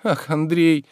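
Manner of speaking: tender pleading. A narrator's reading. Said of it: "сказал он нежным, умоляющим голосом".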